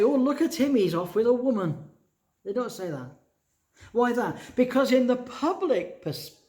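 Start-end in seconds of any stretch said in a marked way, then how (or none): 0.0-1.9 higher, louder gossiping bystander; nosy neighbour pointing him out, a touch mocking. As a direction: sneer like a street gossip. Gossiping street people mocked.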